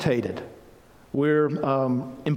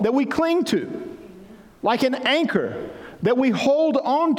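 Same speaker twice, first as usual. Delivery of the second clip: full-force preaching; 8 semitones higher than usual. Acted. Pastor urging the church to know God's promises, preaching at full force. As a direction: preach it out high and strong to the congregation.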